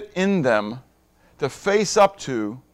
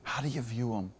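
hushed question; 6 semitones lower, 15 dB quieter than usual. Acted. Preacher hushing the room to ask how they view God, quiet. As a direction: drop to a near-hush and ask it gently.

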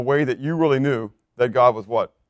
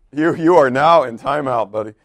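mock scolding; 5 dB louder than usual. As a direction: tell him off, half joking.

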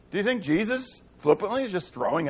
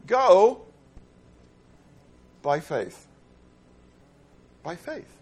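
commanding go; 3 semitones lower, much slower than usual. Acted. Preacher commands disciples.

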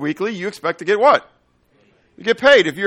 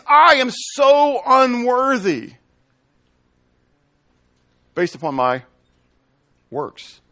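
earnest confession; 8 semitones higher, slower than usual. Acted. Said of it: "confessing before congregation".

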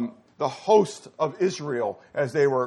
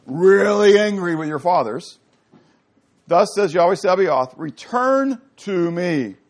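loud, slow proclamation of God's words; forceful scripture reading; 6 dB louder than usual. Acted. Preacher reading God's call to return, loud and forceful. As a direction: proclaim it as God's own angry voice.

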